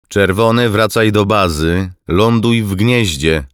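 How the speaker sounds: loud, high, pressing recall; insistent radio order. A narrator's reading. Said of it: "Głos w słuchawkach robił się nachalny". (nachalny, głośny rozkaz przez radio)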